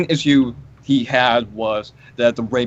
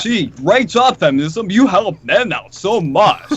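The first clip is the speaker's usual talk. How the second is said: sarcastic; 6 semitones higher, slower than usual. Real, not acted. Sarcastic mock praise of feminism.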